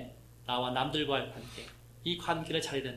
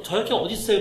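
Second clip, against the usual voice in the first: puzzled question; 6 semitones higher, 9 dB louder, faster than usual. Retold or imitated. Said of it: "그래서".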